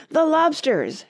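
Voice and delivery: high, loud burst; excited shout. A narrator's reading. Gryphon finishing the Mock Turtle's sentence, shouting. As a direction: shout it as if leaping up. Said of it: "shouted the Gryphon".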